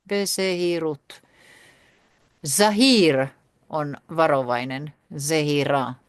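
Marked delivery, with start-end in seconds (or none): 0.1-1.2 "Bezeirut" drawn out slowly, syllable by syllable; slow careful. Shown as a demonstration.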